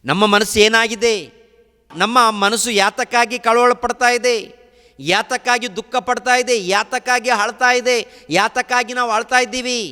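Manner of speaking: high, loud lament from the pulpit; fiery preaching. Acted. Preacher describing the rich man's torment, loud and high. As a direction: cry it out to stir the hall.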